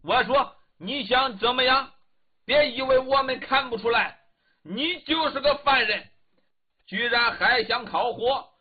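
a hint of a foreigner's stiff, clumsy Mandarin; lightly sketch a Hu man's stiff Chinese; stiff foreign Chinese. Hu man taunts the prisoner, stiff foreign Chinese. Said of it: "说着汉语非常生硬".

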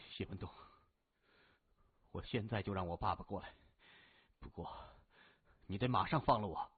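low, quiet, halting plea with long gaps; subdued captive. A narrator's reading. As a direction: bargain quietly, pausing between phrases. Captive finally speaks after inner struggle. (低声迟疑地谈条件)

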